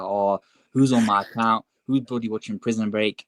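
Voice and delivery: lightly attempted Brummie accent, mildly vexed; half-hearted mock-Brummie telling-off; terrible Brum accent. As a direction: imitate a fuming uncle in a bad Brummie accent. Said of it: "That was a terrible Brum accent".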